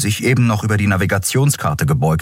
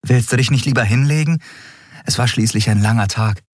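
put-on higher, fast, eager young captain; Endriel voice; 6 semitones higher, faster than usual. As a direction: push the crew along, a bit rushed. Endriel schickt Xea ins Bett. (höhere, eilige Stimme der jungen Kapitänin)

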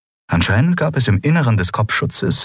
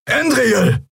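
urgent high call across the room. A narrator's reading. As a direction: shout her name in warning. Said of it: "rief Keru".

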